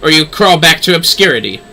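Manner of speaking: lightly voiced commanding lady. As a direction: lay down the terms with no room to argue. Lady gives orders.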